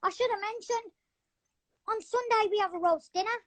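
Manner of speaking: lightly put-on English accent; chatty English bloke accent, improvised; the speaker's English accent. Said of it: "I'm good at an English accent".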